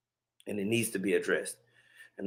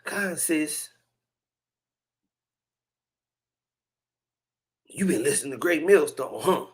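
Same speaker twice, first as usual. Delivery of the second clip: mock bishop; 5 semitones higher than usual. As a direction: drag it out like a condescending bishop. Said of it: "And they'd be like".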